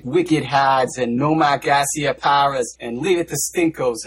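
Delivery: mock Boston accent. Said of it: "the atrocious Boston accent, with its characteristic".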